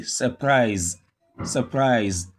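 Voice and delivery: "surprise" with weak suh, stressed PRISE; schwa first syllable. Shown as a demonstration. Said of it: "the U R is pronounced as a schwa".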